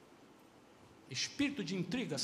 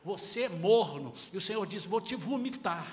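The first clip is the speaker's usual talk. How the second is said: forceful pulpit emphasis, not angry; emphatic preaching; 3 semitones lower, 4 dB louder than usual. Real, not acted. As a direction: drive each word home to the flock. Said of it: "eu tô falando com ênfase".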